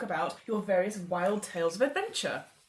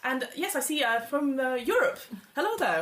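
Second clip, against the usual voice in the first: raised, hearty aristocratic host voice; genial Earl host; 2 semitones higher than usual. Acted. The Earl of Weston-super-Mare welcoming guests to his club, hearty and raised.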